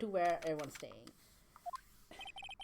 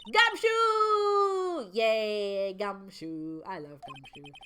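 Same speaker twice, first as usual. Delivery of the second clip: excited cheer; 4 dB louder, much slower than usual. Real, not acted. Player spots beloved Gumshoe, cheering excitedly. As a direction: cheer the name, stretching the final vowel. Player greets a favourite character.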